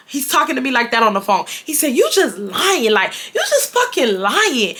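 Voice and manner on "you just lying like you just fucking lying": imitating mad ex. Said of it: "he just getting so mad".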